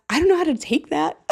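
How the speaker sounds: high, put-on cartoon kid voice; squeaky cartoon boy; Cartman voice. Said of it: "said I sounded like Cartman".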